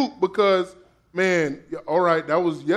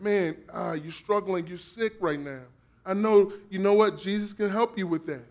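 soft consoling; 5 dB quieter than usual. Retold or imitated. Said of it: "what do I mean by that?".

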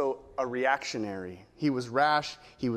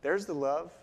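put-on four-year-old voice; 4 dB quieter than usual. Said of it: "in a four-year-old voice".

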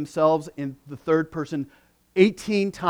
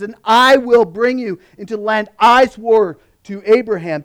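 scripture reading. Acted. Preacher reading God's promises to the congregation, building proclamation. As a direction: read God's promises with growing force. Reads God's words from Exodus.

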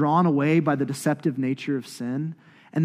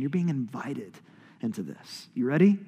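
ordinary talk, nothing marked

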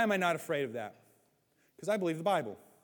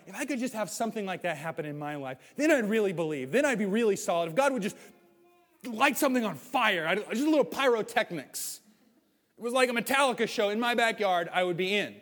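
mock-eager believer, raised and higher; eager wishing; 3 semitones higher than usual. A believer wishes God would light a fire, eager mock plea. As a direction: gush like someone begging for a sign. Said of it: "This thing that we're like".

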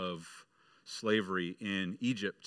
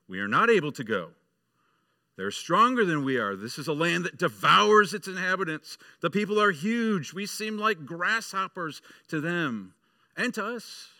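fearful spies; 7 semitones higher, 5 dB louder than usual. Acted. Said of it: "But the rest of them said".

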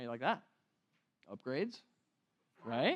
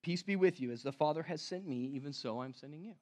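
reads the verse, fading softer; quiet reading; 3 semitones lower, 6 dB quieter, faster than usual. Shown as a demonstration. Preacher reading Jesus's words, softening to near quiet. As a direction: let the words settle, softer each phrase. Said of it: "Look at what he says".

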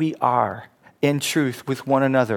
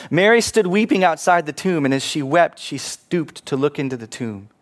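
measured, solemn Bible reading; scripture reading. Acted. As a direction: read the Gospel aloud with reverence. Preacher reads the Gospel passage.

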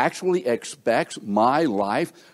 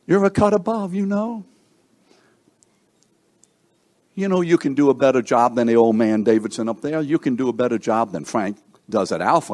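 mock boasting; 5 dB louder, faster than usual. Mocking the listeners' pride.

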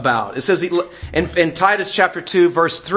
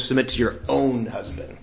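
softer, lower quoted reminder; pointed aside; 5 semitones lower, 6 dB quieter than usual. Shown as a demonstration. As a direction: drop the voice to make a pointed aside. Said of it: "he makes sure he says".

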